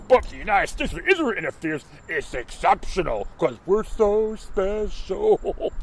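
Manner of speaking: drip sarcasm on special; sarcastic. Pretend. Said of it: "I'm just being sarcastic".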